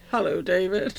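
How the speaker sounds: a hint of smooth Roger Moore greeting; mock Roger Moore greeting his neighbour, a singer; Roger Moore impression. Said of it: "Roger Moore impression".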